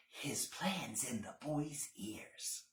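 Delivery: soft slow whisper. A narrator's reading. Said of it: "and whispered".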